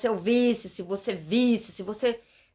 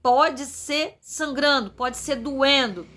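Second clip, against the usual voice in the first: slow pleading prayer; 3 semitones higher, slower than usual. Retold or imitated. Quoting her own prayer to God.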